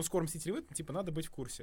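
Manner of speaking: mocking retelling. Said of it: "mocking friend's argument".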